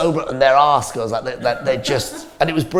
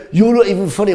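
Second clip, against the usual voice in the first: mock heckle, pitched up; higher, mildly raised heckling voice; heckler shouting; 7 semitones higher, 4 dB louder than usual. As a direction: imitate a drunk heckler having a go. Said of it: "this guy starts shouting".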